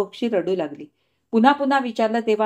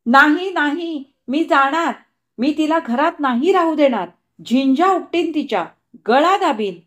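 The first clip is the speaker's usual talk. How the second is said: higher, frenzied shrieking refusal; passionate shriek; 5 semitones higher, 3 dB louder than usual. Acted. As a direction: scream it out in a jealous frenzy. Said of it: "आवेशानं किंचाळली".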